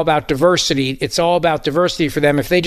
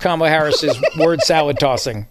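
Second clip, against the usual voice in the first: laughing. Real, not acted. Teasing the co-hosts with phrase.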